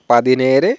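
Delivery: পাদিনেরে ending in a long e-re; careful model পাদিনেরে; ere ending. Shown as a demonstration. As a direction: stretch the ne in পাদিনেরে. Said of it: "এরে উচ্চারণ হবে এখানে".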